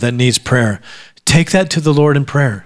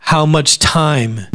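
very slow, quieter, much stressed; slower, softer repeat; much slower than usual. Shown as a demonstration. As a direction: draw out How much time, gently. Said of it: "oh, this is gonna be rough".

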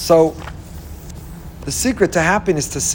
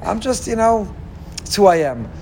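resigned excuse. Retold or imitated. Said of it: "the next day you say".

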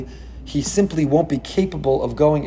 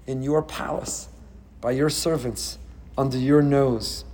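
sudden much softer, slow and pointed; hushed taunt; 6 dB quieter, slower than usual. Retold or imitated. Preacher quietly needling Pharaoh, hushed and slow. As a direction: drop to a near hush to twist the knife.

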